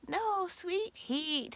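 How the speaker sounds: slow, spelled-out no, sweet heat; slow correction. Retold or imitated. Wife correcting husband who misheard sweet heat. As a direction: correct him patiently, word by word.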